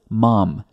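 "mam" said as a single short closed syllable; just "mam", one beat; teacher's correct form. Shown as a demonstration. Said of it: "it's one syllable".

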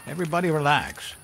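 retold holler. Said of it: "he hollered".

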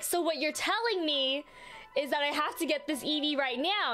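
mildly insistent retold question; lightly acted challenge; mock incredulous. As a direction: press the point in playful disbelief. Retold argument, first take.

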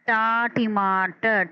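टा टीमाटर said slowly, syllable split off; teacher sounding out टा टीमाटर. Shown as a demonstration. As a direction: spell out टा before टीमाटर. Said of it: "तीन आवाज़ों में इसका तलफ़ुज़".

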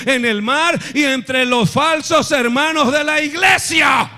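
drawn-out thundering finish; preaching shout. Acted. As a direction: land the list's climax hard. Climax of Paul's list.

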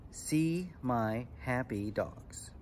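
very slow, syllable by syllable; measured haiku recital. Shown as a demonstration. Teacher reciting an example haiku to kids, slow and measured. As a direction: draw out each word for counting.

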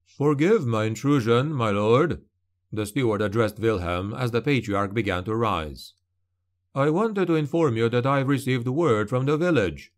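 a deferential steward addressing his lord. Acted.

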